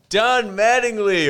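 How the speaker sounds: high, loud, slow announcer style; announcing name. Retold or imitated. Introducing the baseball star to a friend, high slow announcing. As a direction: call the name like a stadium announcer. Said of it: "it's like".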